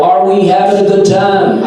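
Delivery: mock an eager comic asking "Are we having a good time?", stretching it out; mock comic crowd-work. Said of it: "A lot of comics like to come out and go".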